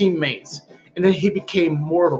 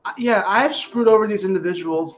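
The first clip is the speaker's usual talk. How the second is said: pleading excuse; 4 semitones higher than usual. Retold or imitated. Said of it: "being like".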